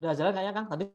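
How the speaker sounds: choppy, dropping out audio; bad connection. Real, not acted. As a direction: voice breaking up over the line. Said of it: "putus-putus suaranya".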